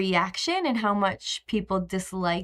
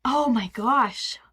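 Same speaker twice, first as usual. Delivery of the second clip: breathy, slow whispered "oh my gosh"; slower than usual. Real, not acted. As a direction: breathe "oh my gosh" out slowly on air. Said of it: "same exclamation, now whispered".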